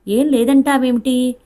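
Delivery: a mother refusing to accept 'nothing'; disbelieving outburst. A narrator's reading. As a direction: stretch each word in upset disbelief.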